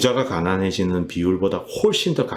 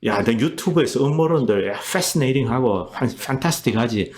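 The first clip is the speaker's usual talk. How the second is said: lightly mocking comeback, brushing off the questioner; imitated dismissive retort; 4 semitones higher than usual. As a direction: play a politician waving away conspiracy talk. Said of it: "이렇게 이제 받아치는 겁니다". (비꼬듯 받아치는 흉내)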